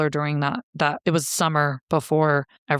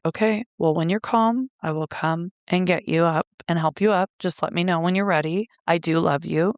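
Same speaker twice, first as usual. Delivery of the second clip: trying to be nice. Retold or imitated. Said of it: "trying to be nice".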